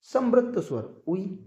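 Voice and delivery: slow, deliberate repeat of the mnemonic समृत स्वर उई; teacher drilling समृत स्वर उई slowly for memory. Shown as a demonstration. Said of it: "trick आपको इसकी याद आप रख सकते हैं उई से".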